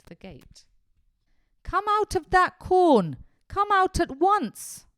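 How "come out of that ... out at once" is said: slow, furious shout, much higher and louder; furious yell. Acted. Angry farmer yells at Dick in his corn, slow furious shout. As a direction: bellow it at the trespassing boy. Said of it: "a furious voice yelling at him".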